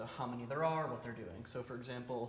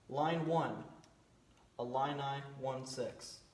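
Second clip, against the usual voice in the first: calm radio fire call; slower than usual. Shown as a demonstration. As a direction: read each line like a radio operator. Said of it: "here's what the transmission might sound like".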